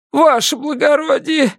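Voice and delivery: begging prisoner. A narrator's reading. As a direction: cry out for mercy. Prisoner's eager promise.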